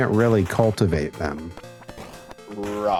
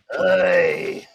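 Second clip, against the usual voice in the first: raspy, put-on clown voice; 2 semitones lower, 4 dB louder than usual. Doing a Krusty the Clown voice after being asked. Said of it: "That's my Krusty".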